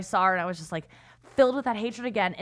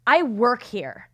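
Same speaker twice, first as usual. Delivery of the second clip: curt put-down; 3 semitones higher, 5 dB louder, much slower than usual. Retold or imitated. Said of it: "And she goes".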